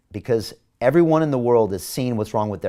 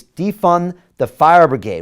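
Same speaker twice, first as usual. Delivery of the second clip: indignant; 6 semitones higher, 8 dB louder, slower than usual. Real, not acted. Indignant rhetorical question.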